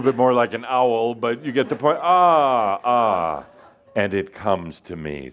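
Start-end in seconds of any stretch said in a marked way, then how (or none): 2.0-3.4 wolf howl. Acted. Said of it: "let's all do wolf".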